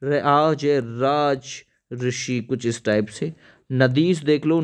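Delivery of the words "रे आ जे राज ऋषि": letters dictated slowly; slow spelling out. Shown as a demonstration. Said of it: "राजऋषि आ चुका है". (धीरे-धीरे अक्षर बोलते हुए)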